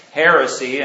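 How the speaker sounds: loud single-word heckle; a mock shout of heresy; retold yell. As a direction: call it out from the back of the hall. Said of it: "he yells out".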